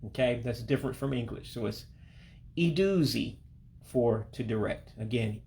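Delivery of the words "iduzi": iduzi said ee-doo-zee, higher than usual. Shown as a demonstration. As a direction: model iduzi with ee sounds. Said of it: "the I's make an E sound".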